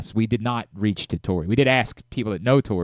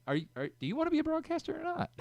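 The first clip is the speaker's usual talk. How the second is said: much higher, softer mock of a frustrated boss; imitating the boss's exasperated question; impatient boss; 10 dB quieter, faster than usual. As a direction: needle him like a fed-up producer. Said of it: "With him sitting there saying".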